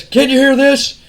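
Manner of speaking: loud, high taunting wrestler voice; Austin taunting. Retold or imitated. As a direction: needle him like a smug tough guy. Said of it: "Austin says".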